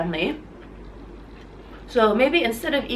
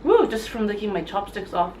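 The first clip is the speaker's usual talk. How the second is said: wasabi burn in the nose; after eating wasabi. Real, not acted. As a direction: talk through the wasabi sting. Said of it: "too much wasabi in my mouth".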